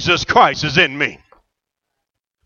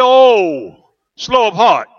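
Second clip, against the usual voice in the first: tender voice of the Lord; 4 semitones lower than usual. Retold or imitated. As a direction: comfort him like a father. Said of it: "He said".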